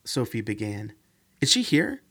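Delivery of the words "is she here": higher and louder, urgent; a touch of alarm. Acted. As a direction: ask as if it can't wait. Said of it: "Amanda asked her urgently".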